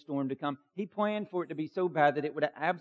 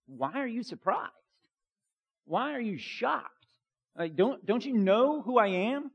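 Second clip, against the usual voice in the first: higher, pleading questions that build up; voicing Jesus; 5 semitones higher than usual. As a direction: press the disciples, gently insistent. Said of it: "is Jesus like".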